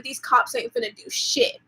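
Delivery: whispered aside. Retold or imitated. Muttered aside at cops.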